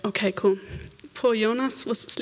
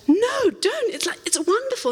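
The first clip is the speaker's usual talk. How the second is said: high, bright protest; excited; 12 semitones higher than usual. Retold or imitated. Waitress declining prayer for her wrist, excited. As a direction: quickly wave off the offer.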